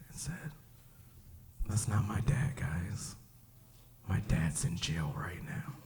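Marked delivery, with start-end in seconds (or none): 1.7-5.7 hushed, nearly whispered admission; somber little girl. Retold or imitated. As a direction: say it very softly, low-energy. Girl somberly corrects the kids.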